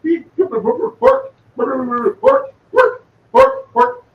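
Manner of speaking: high squeaky Muppet meeping; Beaker squeak. Retold or imitated. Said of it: "the Turkish guys were like".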